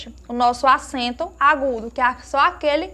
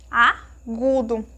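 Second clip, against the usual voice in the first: agudo slowly split as "a... gudo"; syllable by syllable; 4 semitones lower, much slower than usual. Shown as a demonstration. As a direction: hold the "a" of agudo, pause, then "gudo". Professora separa as sílabas devagar. (agudo dito devagar, separando o "a")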